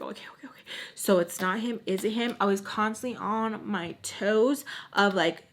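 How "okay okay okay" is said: very low, hushed acknowledgment; muttered okay. Retold or imitated. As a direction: mumble it under your breath. Retold wary reply to ex.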